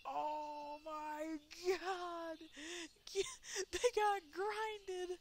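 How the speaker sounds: half-scream it while cracking up; laughing crying out. Real, not acted. Gamer watching characters get ground up, laughing cry.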